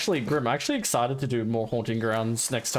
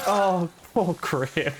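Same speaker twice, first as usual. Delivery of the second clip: mock pity; 3 semitones higher, much slower than usual. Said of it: "I was like".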